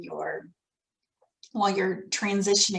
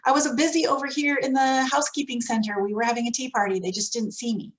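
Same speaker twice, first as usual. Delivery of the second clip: teacher excuse; 3 semitones higher than usual. Retold or imitated. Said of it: "they'll say".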